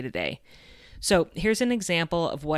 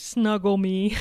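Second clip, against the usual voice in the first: put-on tearful child; 4 semitones higher, 4 dB louder, slower than usual. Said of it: "she said through her tears".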